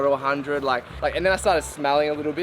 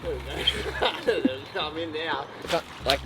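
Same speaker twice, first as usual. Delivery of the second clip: strained, breathy from the cold; barely voiced through the cold; in ice cold water; 5 dB quieter, slower than usual. Real, not acted. Sinking fully into ice.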